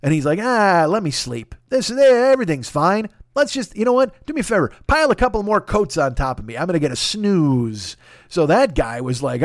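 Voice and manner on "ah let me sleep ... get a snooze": lightly voiced drowsy grumble, higher pitch; sleepy guy. Sleeping guy in his brain asks for more coats, drowsy. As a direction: wave it all away, wanting more sleep. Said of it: "another guy in my brain who's sleeping".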